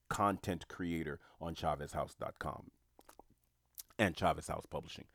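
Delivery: words around a sip of water; while sipping a drink. Real, not acted. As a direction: talk between sips of lemon water. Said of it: "Pardon me, I'm drinking a lot of lemon water".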